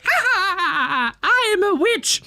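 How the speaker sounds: high-pitched mock witch cackle and line. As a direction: cackle high, then announce yourself as a witch. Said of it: "normally it'd be like".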